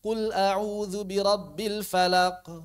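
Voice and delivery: slow chant, falaq fading on a faint q; recited slowly, final bounce on falaq barely sounded; weakened echo. Shown as a demonstration. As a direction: show the mistake of weakening the end of falaq. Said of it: "sebagian orang dilemahkan".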